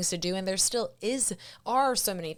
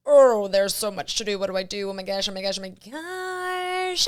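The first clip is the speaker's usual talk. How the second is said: overwhelmed panic; 5 dB louder than usual. Pretend. Acting out an overwhelmed person.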